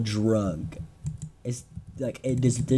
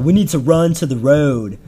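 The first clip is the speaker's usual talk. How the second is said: mock panicked yell, a bit louder; half-shouted imitation of a panicked scream; retold screaming; 2 semitones higher, 5 dB louder than usual. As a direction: act out your own silly screaming. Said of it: "I just started screaming".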